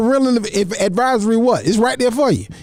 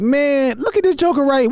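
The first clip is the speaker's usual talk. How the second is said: mocking the poser; 6 semitones higher than usual. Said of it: "it was like".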